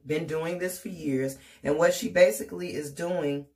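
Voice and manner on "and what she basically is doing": talking while chewing gum; words round a wad of gum. Real, not acted. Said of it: "I cannot talk and chew gum at the same time".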